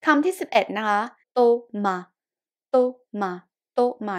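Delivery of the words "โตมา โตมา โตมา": French Thomas said "โตมา", silent s; "โตมา" as to-ma with an unaspirated t; TH as Thai ต. Shown as a demonstration. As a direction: repeat "โตมา" syllable by syllable, hard t. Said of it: "ออกเสียงต่อเต่า".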